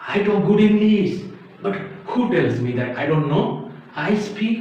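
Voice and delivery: hammed-up Indian English; Indian accent. Teacher mimicking a learner boasting of good English, Indian accent. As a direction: imitate an unlinked Indian-accented English speaker. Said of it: "Or else you sound like entirely".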